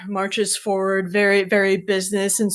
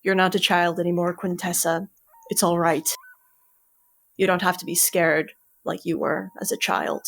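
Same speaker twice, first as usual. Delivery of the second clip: reassuring mentor; faster than usual. Acted. GM voices Curling reassuring.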